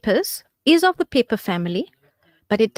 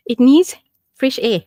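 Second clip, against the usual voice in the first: talking through burning mouth; words round a hot mouthful; mouth full of hot food; 4 dB louder than usual. Real, not acted. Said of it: "tip of my tongue feels like I've dipped it".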